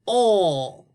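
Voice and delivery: lightly voiced shy puppet greeting; a hint of a sleepy puppet saying hello; gentle puppet voice for the class; puppet Tony.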